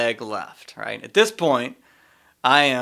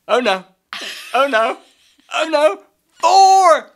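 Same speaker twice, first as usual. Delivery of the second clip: louder and higher with each oh no, yelling four at the top; rising shout; 13 semitones higher, 8 dB louder, slower than usual. Retold or imitated. Friend Carter warning golfers as the ball flies at them, building shout. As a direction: build from alarm to a full warning yell.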